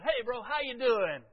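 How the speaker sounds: loud, slow friendly hello; cheery greeting. Retold or imitated. Calling out to his friend in the shop, hearty hello. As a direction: call out warmly to an old friend.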